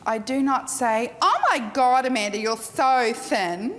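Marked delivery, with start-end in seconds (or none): 1.2-3.7 gushing bad compliment. Shown as a demonstration. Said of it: "Oh, that's not a compliment".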